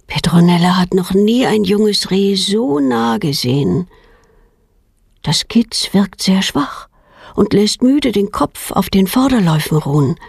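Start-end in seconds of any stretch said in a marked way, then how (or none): none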